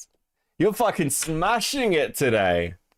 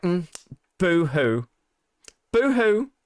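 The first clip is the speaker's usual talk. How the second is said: mock boo-hoo; 3 semitones higher, slower than usual. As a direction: taunt like a mock crybaby. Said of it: "And you're like".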